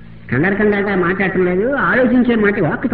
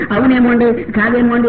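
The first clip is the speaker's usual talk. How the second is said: unsure hedging; 4 semitones higher than usual. Shown as a demonstration. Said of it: "ఇలా అని కాకుండా with determination".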